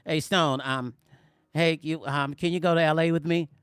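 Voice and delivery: lightly imitated hesitant friend; Amir. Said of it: "This is how Amir sounds".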